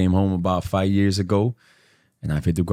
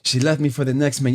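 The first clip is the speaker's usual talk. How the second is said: mock heartbroken man; 5 semitones higher than usual. Mocking heartbroken men.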